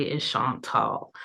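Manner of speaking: Chantal said as shahn-TAHL, stress on the last syllable; firmly correcting her name Chantal as shahn-TAHL; correct pronunciation. Shown as a demonstration. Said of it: "hard time pronouncing Chantal".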